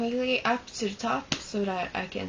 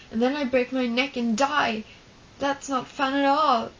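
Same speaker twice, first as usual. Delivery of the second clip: imitating a panicky boy, louder and higher; panicky worry; 4 semitones higher, 4 dB louder than usual. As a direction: rush it out like a scared kid spiraling into worst cases. Boy worries about getting hurt.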